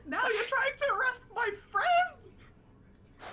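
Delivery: slow, high indignant cry; indignant character voice. Acted. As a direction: protest in outrage, drawn out.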